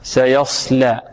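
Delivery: سيصلى with heavy ص and light ل; careful pronunciation model. Shown as a demonstration. Teacher corrects student's lam, careful pronunciation model. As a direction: keep the ل of سيصلى thin after a heavy ص. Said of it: "مفخمة ومرققة".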